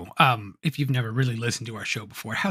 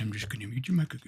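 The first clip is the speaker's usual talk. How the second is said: mocking echo; 2 semitones lower, 8 dB quieter than usual. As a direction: parrot his threat back. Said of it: "mocking repeat of host".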